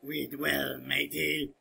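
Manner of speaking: slow hammy pirate line; badly acted pirate drawl; bad acting. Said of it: "I'm sorry for my bad acting".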